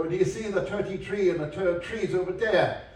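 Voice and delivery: Irish accent, TH turned to T. Shown as a demonstration. Lecturer showing how the Irish drop TH, Irish accent. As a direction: put on Irish, saying "thirty-three" like "tirty-tree". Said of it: "they don't often pronounce the T H".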